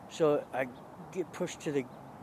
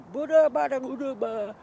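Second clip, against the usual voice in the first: high, loud nonsense syllables; talking weird; 11 semitones higher, 7 dB louder than usual. Retold or imitated. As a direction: mimic slurred stroke babble, pitched up. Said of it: "talking weird, right?".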